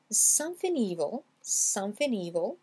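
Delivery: SOMETHING EVIL run together as "somethin-eevil"; linked words. Shown as a demonstration. Teacher links the two words for learners, G dropped. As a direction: drop the G and glide into evil. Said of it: "j'ai lié les deux mots".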